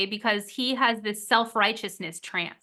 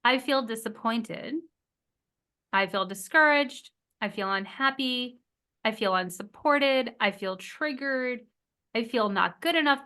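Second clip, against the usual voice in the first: feeling statement. Shown as a demonstration. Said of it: "A feeling is".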